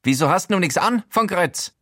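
put-on high, reproachful old-man voice; disapproving Showalter. Showalter reproaches the naked narrator, disapproving. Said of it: "fragt Showalter missbilligend".

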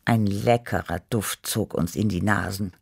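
plain reading voice

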